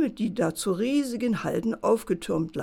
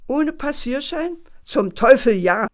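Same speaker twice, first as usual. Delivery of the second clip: laut herausplatzen, Zum Teufel am lautesten; erschrockener Ausruf; 6 semitones higher, 7 dB louder than usual. Acted. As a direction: vor Schreck nachgeben und fluchen. Pförtner gibt erschrocken nach. (Pförtner gibt dem Bären erschrocken und laut nach)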